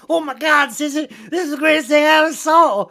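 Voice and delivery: high, quick, sarcastic gushing; mock delight. Imagined Bud reacting to Sissy's surprise, mock delight. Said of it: "Did she think he was gonna be like".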